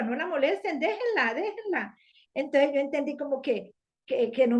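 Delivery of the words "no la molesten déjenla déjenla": high, firm command; Jesus's command. Retold or imitated. Jesus tells the disciples to leave her be, high and firm. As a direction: voice Jesus protecting the woman, pitched up high. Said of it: "dijo Yeshua".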